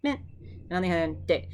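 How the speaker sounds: men said high with a falling tune. Shown as a demonstration. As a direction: lift men high, then let it drop. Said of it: "the sentence will be like".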